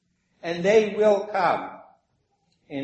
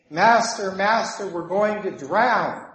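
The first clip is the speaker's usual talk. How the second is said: slightly alarmed cry, higher on Master; mild mock fear; 3 semitones higher, 4 dB louder than usual. Disciples waking Jesus in the storm, mildly alarmed. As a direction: call out with a touch of fear, drawing out the last words. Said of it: "getting more and more afraid".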